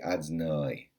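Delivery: "adnoi" with the middle squeezed to a shva; wrong pronunciation. Shown as a demonstration. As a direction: clip the middle of "adnoi" to almost nothing. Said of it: "That's also not God's name".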